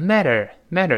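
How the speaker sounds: "matter" quick, t softened to a d-like tap; voiced t. Shown as a demonstration. Teacher shows learners fast matter, t voiced. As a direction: say "matter" as "madder", tongue curled at the end. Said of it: "读快了浊化变成matter".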